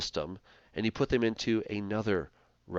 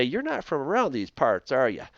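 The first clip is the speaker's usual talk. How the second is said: put-on terrible Texan accent; 4 semitones higher, 4 dB louder than usual. Lecturer showing how regional accents differ, in a bad Texan accent. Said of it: "forgive my terrible, uh, Texan accent".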